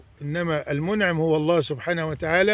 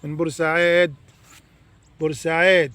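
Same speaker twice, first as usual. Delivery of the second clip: put-on Port Said accent; faster than usual. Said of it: "الجماعة بتوع بورسعيد بيقولوا".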